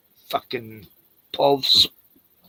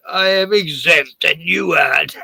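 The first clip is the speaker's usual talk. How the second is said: mock snob; 3 semitones higher, 3 dB louder, slower than usual. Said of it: "I'd go".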